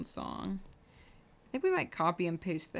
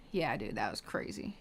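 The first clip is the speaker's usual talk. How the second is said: whispered, lower, aside; 9 semitones lower, 5 dB quieter than usual. Real, not acted. Agreeing with self about the movie, whispered. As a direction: lean in and whisper it.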